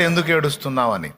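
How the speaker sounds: a hint of the Lord's tender concern; the Lord asking gently. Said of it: "బయట ప్రభు అడిగాడు".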